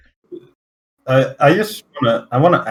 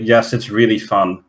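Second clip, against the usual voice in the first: deadpan. Retold or imitated. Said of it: "said with a straight face".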